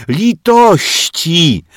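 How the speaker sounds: slow, high, loud groan; groaning plea. Acted. Teacher groans at the children's ideas, slow. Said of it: "jęknęła pani Miłka".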